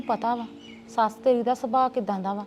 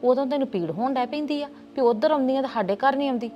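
raised, higher-pitched angry complaint; indignant anger; 4 semitones higher, 4 dB louder than usual. Acted. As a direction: let the resentment build into a louder, higher protest. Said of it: "ਗੁੱਸਾ ਤੇ ਮੇਰੇ ਮਨ ਵਿੱਚ ਵੀ ਹੈਗਾ ਵਾ".

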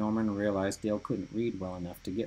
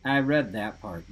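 warning; 4 dB louder than usual. Acted. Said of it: "Dale warned".

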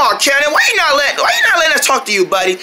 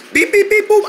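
beeping remote noises; 9 semitones higher than usual. Pretend. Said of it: "like a remote control".

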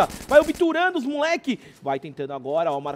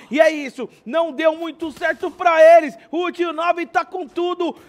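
excited play-by-play; 5 semitones higher, 4 dB louder than usual. Real, not acted. Live call of a chase.

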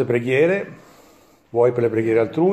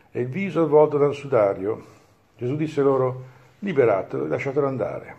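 measured, solemn Gospel proclamation; liturgical reading. Acted. Priest reading the Gospel of Lazarus at Mass, solemn proclamation. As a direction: proclaim it to the congregation, steady and solemn.

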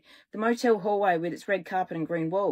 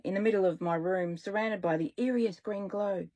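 ordinary delivery, nothing marked

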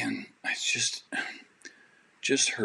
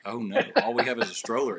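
laughing panic; 5 semitones higher, faster than usual. Retold or imitated. Panicked retold reaction, laughing.

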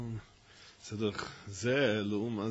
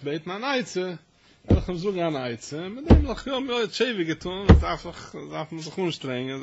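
impassioned preaching; 6 semitones higher, 9 dB louder than usual. Acted. Preacher at full force.

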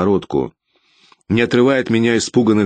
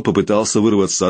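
ordinary delivery

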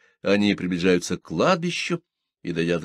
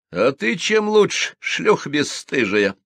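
vicious, higher and slower; spiteful; 7 semitones higher, 5 dB louder, slower than usual. A narrator's reading. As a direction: squeeze the insult out with malice. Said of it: "злобно выдавила Ленка".

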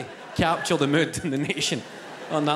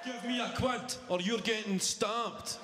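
much softer, slow menacing threat; mock threat; 2 semitones higher, 12 dB quieter, slower than usual. Imagined politician threatens the opponent, quietly menacing. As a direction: murmur it like a mugger.

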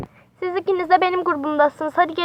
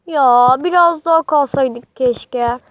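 whiny plea; 4 semitones lower, slower than usual. Acted. Girls beg to stay longer.

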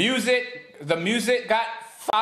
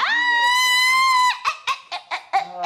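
very high, drawn-out laughing shout; squealing; 4 dB louder, much slower than usual. Real, not acted. Conceding a point to the partner, squealing. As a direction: shriek it out slowly through laughter.

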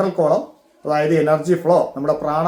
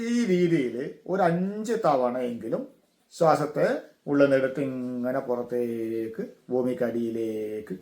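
guided meditation; 3 semitones lower, 7 dB quieter, slower than usual. Shown as a demonstration. Guides repeating the exhalation.

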